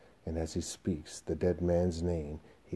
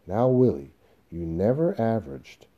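louder, impatient interruption; exasperated objection to a salesman's claim; 3 semitones higher, 6 dB louder than usual. Acted. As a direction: cut in impatiently. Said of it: "Howard impatiently".

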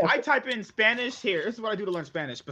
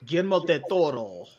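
put-on Spanish accent; 3 semitones lower than usual. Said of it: "That's just doing a Spanish accent".

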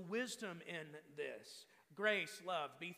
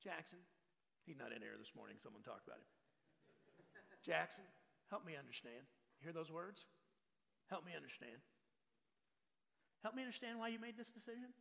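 gentle question to son; 6 dB quieter than usual. Shown as a demonstration. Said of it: "Hear these words".

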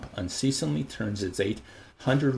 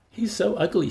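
disgusted Fanny; 11 semitones higher, 4 dB louder than usual. Acted. Fanny voiced high.

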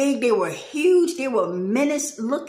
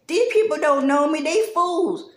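higher, louder exasperated God voice; God in my head; 5 semitones higher, 4 dB louder than usual. Retold or imitated. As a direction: let God vent about these people, loud and high. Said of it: "I can hear God in my head".

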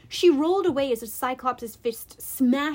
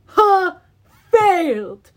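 loud, high gloating monster; gleeful yell; 5 semitones higher, 10 dB louder, much slower than usual. A narrator's reading. Cyclops gloats at cornered heroes, gleeful yell. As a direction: crow in triumph like a giant. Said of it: "he yelled gleefully".

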